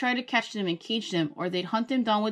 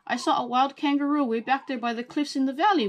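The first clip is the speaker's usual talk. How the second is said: high rushed blurt; 7 semitones higher, 4 dB louder than usual. A narrator's reading. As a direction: blurt it all out. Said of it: "Willie blurted".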